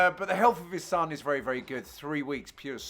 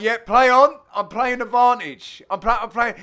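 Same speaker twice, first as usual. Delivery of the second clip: imitating Dave; 5 semitones higher, 8 dB louder than usual. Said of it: "Dave the Rave was like".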